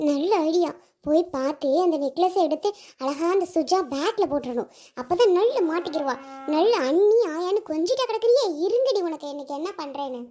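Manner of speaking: scheming villain. Acted. Scheming sister-in-law plots theft.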